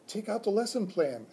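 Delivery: high, eager squeaky voice; hamster squeak. Acted. Hamster tells teacher where the plan is, high squeak. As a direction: pipe up like a tiny pet. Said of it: "I squeaked".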